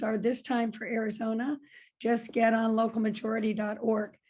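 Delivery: rough, gravelly speaking voice. Real, not acted. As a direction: talk with a gravelly, roughened throat. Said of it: "makes my voice sound very gravelly".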